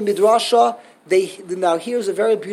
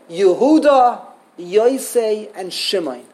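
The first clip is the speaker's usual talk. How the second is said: curt bare names; 4 dB louder, slower than usual. Shown as a demonstration. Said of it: "What kind of chutzpah is that?".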